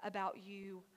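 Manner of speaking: soft, slow and low; tender reassurance. Acted. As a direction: say it slowly, with quiet care. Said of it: "God might as well have said".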